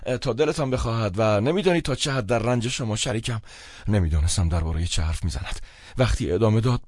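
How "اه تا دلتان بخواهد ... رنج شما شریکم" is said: heartfelt. A narrator's reading. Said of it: "صمیمانه گفت".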